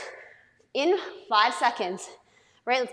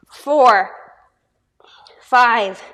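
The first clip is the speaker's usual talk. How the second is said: breathless whispered count under effort; real effort whisper on the last rep; strained whisper; 3 semitones lower, 8 dB louder than usual. Real, not acted. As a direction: squeeze the number out on no voice.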